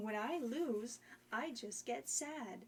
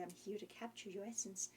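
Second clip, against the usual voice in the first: evil witch voice; 2 semitones lower, 5 dB quieter, faster than usual. Acted. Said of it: "like something like an evil witch would say".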